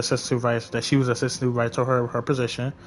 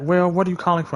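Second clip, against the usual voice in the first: higher-pitched mock brush-off; imitated dismissive supervisor; 5 semitones higher, faster than usual. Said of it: "Very unprofessional, very rude, very dismissive".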